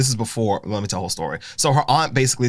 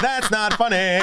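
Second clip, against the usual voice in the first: That's not funny, slow, higher, dissolving into giggles; can't keep a straight face; laughing harder; 9 semitones higher, slower than usual. Real, not acted. Laughs through protest again.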